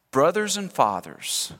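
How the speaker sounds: slow, humble address; gently slow it down to connect. Acted. Preacher reading Stephen's reply to his accusers, humbly. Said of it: "with humility, he connects with them".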